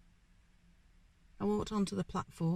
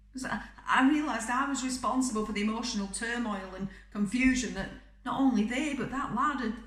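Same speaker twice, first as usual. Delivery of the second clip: anguished confession; 4 semitones higher than usual. Acted. Confesses guilt over the death.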